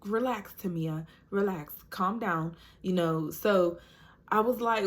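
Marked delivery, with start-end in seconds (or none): 0.0-2.5 soothing nurse. Retold or imitated. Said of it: "She's like".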